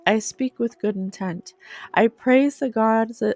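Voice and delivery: a steady, devoted recital of the ideals; solemn reading aloud. Acted. Reads list of ideals aloud.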